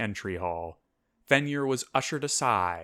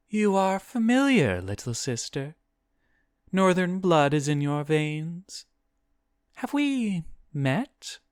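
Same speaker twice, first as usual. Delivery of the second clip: demon; 9 semitones higher than usual. A narrator's reading. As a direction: speak as a demon studying a familiar little sister, pitched high. Voices the demon greeting Guinevere.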